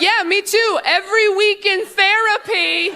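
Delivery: sarcastic reply. Retold or imitated. Answering dad's joke, high sarcastic jab. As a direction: toss it back with bright sarcasm.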